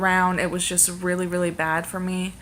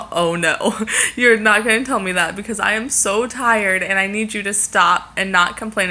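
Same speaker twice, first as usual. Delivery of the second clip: louder, laughing mock protest; laughing retort; 3 dB louder than usual. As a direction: push back playfully through laughter.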